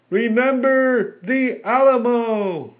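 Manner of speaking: very high, loud, slow chant; crowd battle cry. A narrator's reading. Agitated men chanting their rallying cry. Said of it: "taking refuge in the cry".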